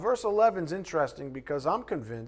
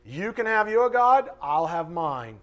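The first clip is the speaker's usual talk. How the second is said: dismissive quote; 6 dB louder than usual. Acted. Preacher quotes someone declining his God, mock dismissive. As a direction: mimic someone waving off your God. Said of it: "How many times have you heard someone say".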